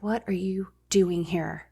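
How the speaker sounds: retelling her hushed words at the door; whispered quote. Retold or imitated. Answering the door to her coworker, hushed and whispered. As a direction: breathe it out, unwelcoming. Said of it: "I was like, almost like".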